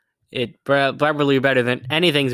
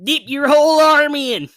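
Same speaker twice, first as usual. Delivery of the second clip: excited; 12 semitones higher, 5 dB louder than usual. Real, not acted. Gleeful about hot cheese.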